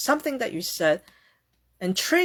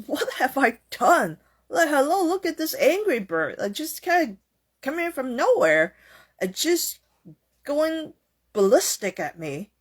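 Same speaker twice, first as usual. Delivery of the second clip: baffled indignation; 6 semitones higher than usual. Retold or imitated. Voicing the bewildered yelled-at person.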